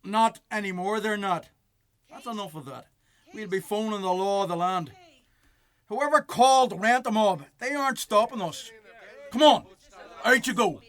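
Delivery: loud, high forceful orders; angry shouting. Acted. Bailiff shouting at the couple to get out, forceful. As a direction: drive them out of the house.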